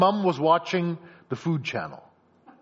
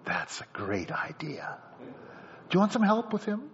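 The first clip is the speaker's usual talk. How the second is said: scheming helpful daughter; 3 semitones higher, slower than usual. Acted. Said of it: "what does the daughter say".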